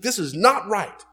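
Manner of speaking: loud firm rebuke; a touch of indignant command; indignant Jesus. Acted. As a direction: scold the disciples firmly. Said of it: "He was like".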